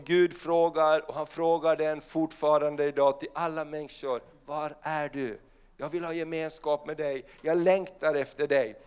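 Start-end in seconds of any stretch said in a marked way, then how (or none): 4.5-8.8 soft, lower voice of God calling out; tender longing call. Acted. Preacher voicing God softly calling for his lost children. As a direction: plead gently like a longing father.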